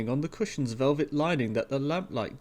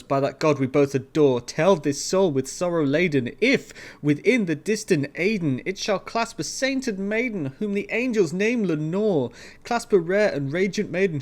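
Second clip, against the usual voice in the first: loud, rising, higher desperate pleading; desperate plea; 3 semitones higher, 6 dB louder than usual. A narrator's reading. Narrator begging the raven about Lenore, loud and desperate. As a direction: beg the raven for the truth.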